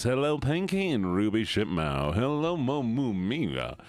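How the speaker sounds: lightly put-on Southern accent; playful Southern greeting voice. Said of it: "we got the Southern voice".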